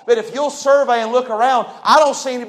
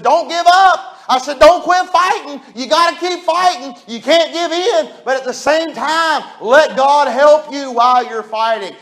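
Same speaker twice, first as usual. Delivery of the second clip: encouraging; 4 semitones higher than usual. Retold or imitated. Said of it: "'cause I encourage her".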